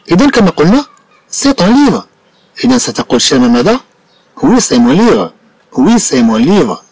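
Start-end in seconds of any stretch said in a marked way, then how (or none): 5.8-6.8 slow for learners. Shown as a demonstration. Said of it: "slow repeat for learners".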